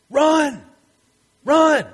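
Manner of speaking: high, urgent cry of run; scary movie shout. Retold or imitated. A movie character yelling to the others to run. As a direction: yell it like fleeing a monster in a horror film. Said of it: "somebody says".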